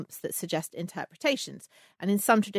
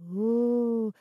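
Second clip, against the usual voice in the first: slow, louder mystic fortune teller; 2 semitones higher, 5 dB louder, slower than usual. Pretend. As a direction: play the mysterious palm reader. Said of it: "I will tell you your fortune".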